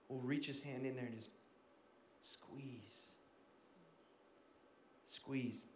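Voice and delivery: soft, low, drawn-out squeeze; hushed intensity. Acted. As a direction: sink to a hush on each squeeze. Slow dramatic hush on squeeze.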